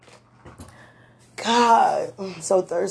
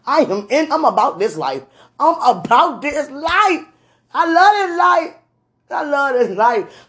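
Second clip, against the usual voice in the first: excited declaration; 3 semitones higher, 3 dB louder than usual. Retold or imitated. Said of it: "I'm like".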